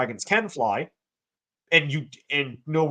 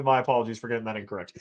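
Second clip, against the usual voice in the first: quicker, quieter, plainly meant; sincere apology; 5 semitones lower, 4 dB quieter, faster than usual. Real, not acted. Correcting himself to the viewer, a quick sincere apology. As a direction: drop the irony and mean it. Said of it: "Uh, unironically".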